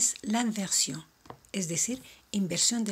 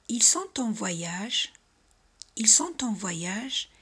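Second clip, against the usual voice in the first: Ils sont en voyage said slowly, voice rising on voyage; slow rising question; 2 semitones higher, 4 dB louder, slower than usual. Shown as a demonstration. Teacher modelling a slow rising question to repeat. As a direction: drawl it out and lift the end. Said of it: "subiendo la voz".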